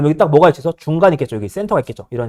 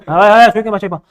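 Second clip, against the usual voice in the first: hushing the class; 4 semitones higher, 5 dB louder than usual. Real, not acted. Teacher hushing noisy class.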